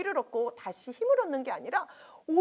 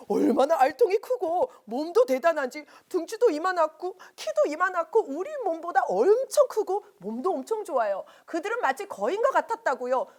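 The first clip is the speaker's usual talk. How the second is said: loud protest; 3 semitones higher, 5 dB louder than usual. Acted. Spies protest to crowd.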